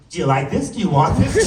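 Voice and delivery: mock pushy suitor, pitch climbing; pushy male pigeon. Pigeon pressing her again.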